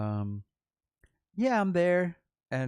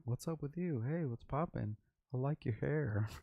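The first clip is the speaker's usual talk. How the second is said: flirty come-on; 3 semitones higher than usual. Retold or imitated. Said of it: "he's, like, hollering at my".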